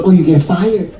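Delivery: put-on nail lady in a Chinese accent; lightly put-on Chinese accent; imitated Chinese accent. Nail lady greeting an early client, imitated Chinese accent. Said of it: "That's her accent".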